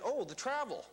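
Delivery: mildly acted delight; excited. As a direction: retell a burst of excitement. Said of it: "I got excited".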